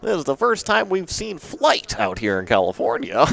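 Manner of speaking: lightly voiced vintage radio announcer; old-timey announcer. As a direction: announce it like a 1920s newsreel. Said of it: "an old-timey announcer talking into the".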